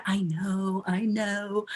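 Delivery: a light mock of a teen brushing off a parent; dismissive, bored teen; eye-rolling teen. Teen rolling eyes at a parent's lecture, lightly mocked. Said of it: "you're gonna get eye rolls".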